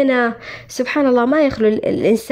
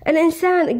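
ordinary talk, nothing marked

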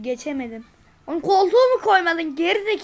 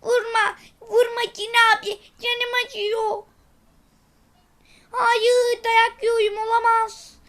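high little robot voice begging not to be hit; a small robot whining under blows; baby robot pleading; 4 semitones higher than usual. Acted. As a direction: beg the genie to stop, high and small. Baby robot begs the genie.

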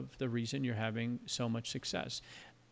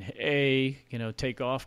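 put-on light stereotypical Canadian accent, a touch louder; mock Canadian accent; 3 dB louder, slower than usual. Host lightly mocking a Canadian accent to his Canadian guest. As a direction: toss off a hint of a Canadian accent. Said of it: "kind of accent".

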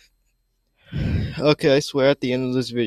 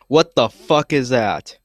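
loud, horrified; shocked outburst; 7 dB louder, slower than usual. Real, not acted. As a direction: blurt it out in shock. Disgusted reaction to creature video.

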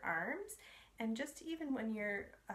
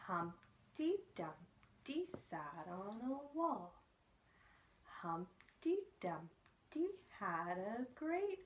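slow, sing-song nursery rhyme; rhyme recital; much slower than usual. Acted. Teacher reciting Humpty Dumpty for babies, sing-song. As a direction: chant it gently for baby.

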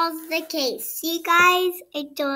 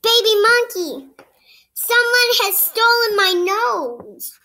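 a higher, pleading voice calling for help; upset character voice; 6 semitones higher than usual. Acted. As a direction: beg baby monkey to find the nose. Character asks monkey for help.

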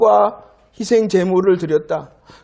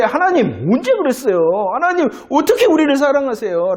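challenging retort; 5 semitones higher than usual. Acted. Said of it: "라고 말할까요".

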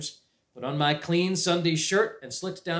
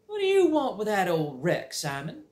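a hint of a fussy aunt, raised; aunt's voice; 7 semitones higher than usual. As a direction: ask with suspicious curiosity. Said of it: "she asked".

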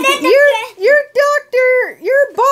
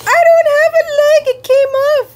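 mock alarm; 4 semitones higher, 3 dB louder, much faster than usual. Elmo realizing leg missing.

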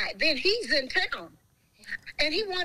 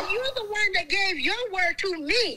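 half-shouted through laughter; laughing shout; 5 semitones higher than usual. Real, not acted. She calls the man out with a laughing shout.

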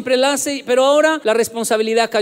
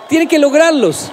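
shout; 5 semitones higher, 6 dB louder than usual. Real, not acted. Motivational speaker's punchline.

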